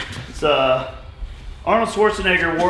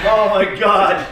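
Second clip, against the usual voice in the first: sore muscles; 5 semitones higher, 6 dB louder, slower than usual. Real, not acted. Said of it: "Everything hurts after the splits".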